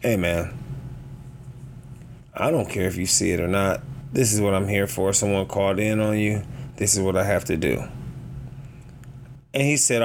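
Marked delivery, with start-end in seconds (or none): 0.0-7.8 low, measured, unbothered reply; retold calm firmness. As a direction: keep it level and low, refusing to argue. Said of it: "But I was calm".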